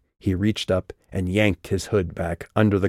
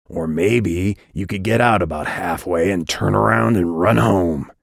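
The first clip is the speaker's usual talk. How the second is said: louder, menacing growl; 4 dB louder than usual. Acted. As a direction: growl it with contempt. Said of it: "he growled".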